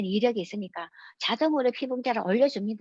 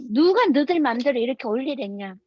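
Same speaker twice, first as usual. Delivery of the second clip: mock outrage, punched opening; retold angry demand; 4 dB louder than usual. Wife berating officials for registering her without asking, mock-angry. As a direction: imitate a wife telling off officials. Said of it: "화가 나서 난리가 났어".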